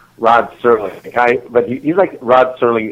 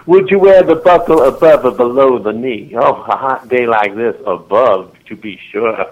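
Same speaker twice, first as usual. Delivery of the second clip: Southern character voice. Retold or imitated. Friend answering about hot-day knickerbockers, mock Southern voice. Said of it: "anybody talking in a character voice".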